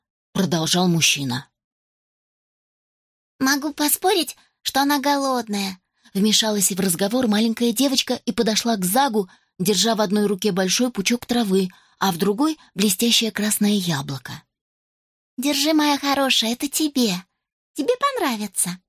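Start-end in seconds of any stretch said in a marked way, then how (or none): 3.4-5.8 put-on high little girl voice. 15.4-18.8 put-on high sweet girl coaxing; coaxing little girl. Girl coaxes the cow.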